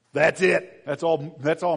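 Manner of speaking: punched home to the congregation; loud emphatic. Shown as a demonstration. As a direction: land it hard the second time.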